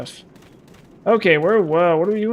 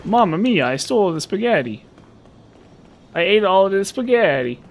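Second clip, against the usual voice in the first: Patches impression; 5 semitones higher than usual. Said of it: "That's what Patches sounds like".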